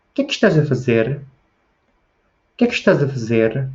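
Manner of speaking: European Portuguese accent. Shown as a demonstration. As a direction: question melody of a Portugal Portuguese speaker. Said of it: "tento imitar a pronúncia dos portugueses". (sotaque de Portugal)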